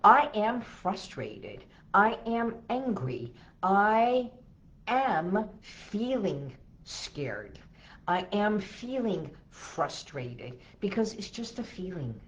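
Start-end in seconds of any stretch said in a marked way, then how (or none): 0.0-10.6 slow, firm, louder declarations; spoken out loud with conviction. Shown as a demonstration. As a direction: state each feeling aloud, deliberately. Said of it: "Say it out loud".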